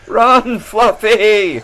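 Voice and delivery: high, urgent cry to flee; frantic escape call; panicked shout. Acted. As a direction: yell at him to run. Fleeing the zombie mob.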